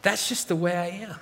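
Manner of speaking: soft, understated resignation; a touch of soft defeat; resigned inner voice. Acted. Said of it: "That voice?".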